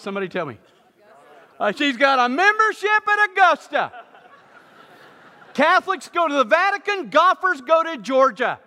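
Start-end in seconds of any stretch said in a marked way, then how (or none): 1.6-8.6 high, loud, gushing delight; gleeful excitement. Acted. Pastor gushing to the congregation over an Augusta membership, loud and excited. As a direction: crow about it like a golf fanatic.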